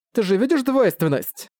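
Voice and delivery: high-pitched urgent question on "двойственность"; fierce and desperate. A narrator's reading. Prisoner urging him to see the duality, fierce and desperate. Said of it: "заговорила инженю яростно и отчаянно".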